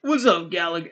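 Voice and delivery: botched attempt at a British accent; failed British accent. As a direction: greet someone in a badly faked British accent. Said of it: "That's not a British accent".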